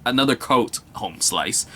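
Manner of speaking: half-hearted Irish lilt that fades out by the end; Irish accent. Retold or imitated. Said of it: "Sorry about the accent".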